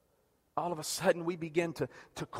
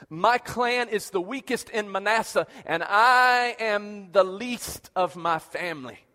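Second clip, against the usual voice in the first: protesting Gideon; 4 dB louder, slower than usual. Retold or imitated. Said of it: "This is what it says".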